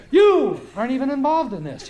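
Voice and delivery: high, loud telling-off; imitated yelling. Him yelling at me as I walk by, imitated yelling. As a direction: yell it at a passer-by. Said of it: "He's just yelling at people".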